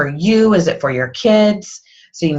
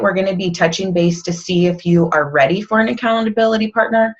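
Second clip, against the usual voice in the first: stumbling with dry mouth; stuttering, mouth dry. Real, not acted. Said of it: "I'm, like, stuttering. I have dry mouth".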